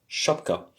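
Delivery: « chapka » soufflé presque sans voix; prononciation soufflée. Shown as a demonstration. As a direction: murmure « chapka » comme modèle. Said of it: "ça s'écrit comme ça". (le professeur souffle « chapka » pour montrer la lettre)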